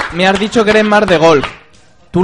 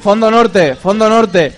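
frat bro; 4 semitones higher, 4 dB louder, slower than usual. Real, not acted. Host hypes stands over microphone.

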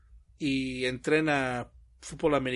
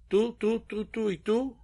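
bossy teacher; 7 semitones higher than usual. Retold or imitated. Bossing kids around at school.

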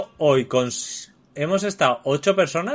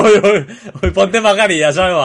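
laughing tease; 3 semitones higher, 5 dB louder than usual. Acted. Teasing a colleague about his mask.

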